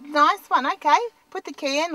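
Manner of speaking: ordinary talk, nothing marked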